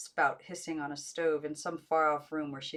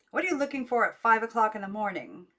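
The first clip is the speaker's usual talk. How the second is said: louder, disbelieving question; louder scolding disbelief; incredulous aunt; 4 semitones higher, 8 dB louder than usual. A narrator's reading. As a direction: stress on you, exasperated.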